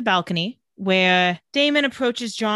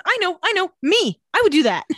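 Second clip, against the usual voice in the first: gleeful mock confession; 8 semitones higher, 5 dB louder than usual.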